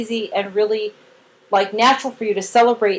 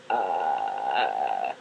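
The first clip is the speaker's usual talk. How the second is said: very low imitated grackle ah; the child's bird noise; deep imitated grackle call; bird sound; 9 dB quieter than usual. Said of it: "So she goes".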